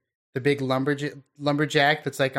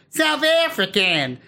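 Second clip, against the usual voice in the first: a clumsy South African accent, slow and raised; bad South African accent; 7 semitones higher, 4 dB louder, slower than usual. Shown as a demonstration. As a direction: try a South African accent and miss badly. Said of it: "that's the worst South African that I've ever heard".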